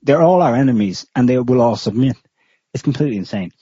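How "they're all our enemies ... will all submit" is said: raised mock shout, easing off; imitated shouting. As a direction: imitate a ranter shouting down his interviewer. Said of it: "this guy shouting at him like".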